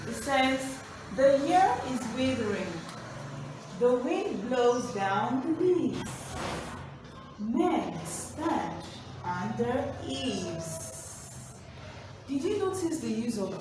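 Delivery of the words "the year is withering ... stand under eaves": slow, deliberate recitation, lines drawn out; poem reading. Shown as a demonstration. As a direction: savour each line like a poem read to a class. Teacher reads poem aloud.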